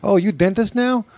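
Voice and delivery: high mock Asian dentist; imitated Asian lady dentist; mock Asian accent. Repeats the mock dentist line.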